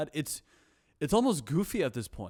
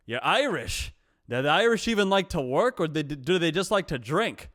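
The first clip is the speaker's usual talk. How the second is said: Italian restaurant owner, voice a bit raised; Italian accent; 3 semitones higher, 6 dB louder than usual. Retold or imitated. Italian restaurant owner ribs the Irish character, in an Italian accent. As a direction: tease in a put-on Italian accent. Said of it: "the most Italian dude I have ever met".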